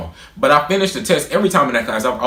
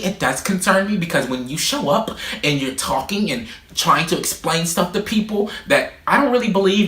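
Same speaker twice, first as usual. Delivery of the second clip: mock teacher voice; 5 semitones higher than usual. Imitating the teacher scolding him in class, mocking. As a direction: parody her lecturing tone.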